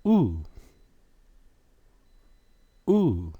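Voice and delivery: Ooh held long, rounded. Shown as a demonstration. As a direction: model Ooh slowly. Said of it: "what sound do you get?".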